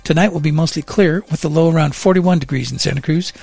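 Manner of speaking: steady, even on-air traffic and weather read; radio traffic report. Acted. Bill reporting morning traffic to listeners, a steady broadcast read. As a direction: read the roads to commuters like a news desk.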